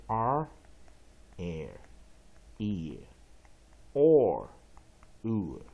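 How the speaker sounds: R, air, ear, or, oo, each drawn out separately with an r glide; American R-coloured vowels. Shown as a demonstration. Teacher demonstrating vowels plus R, slow drawn-out R, air, ear, or, oo. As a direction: slowly sound out R, air, ear, or, oo. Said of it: "形成的美式双元音就是".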